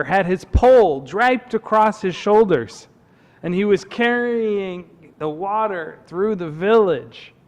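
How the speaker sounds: deliberate storyteller phrasing; story narration. A narrator's reading. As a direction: unfold the tale with lingering key words. Tells a camp story.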